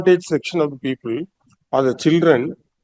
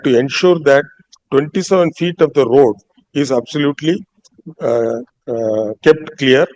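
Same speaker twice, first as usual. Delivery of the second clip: dictating a court order; 3 semitones lower than usual. Acted. Judge resumes dictating the order.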